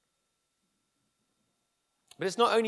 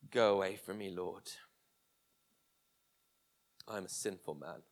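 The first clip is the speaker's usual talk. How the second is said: soft, much lower and hushed; whispered confession; 10 semitones lower, 7 dB quieter than usual. A narrator's reading. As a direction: breathe it out as a broken sinner. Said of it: "he whispers the words".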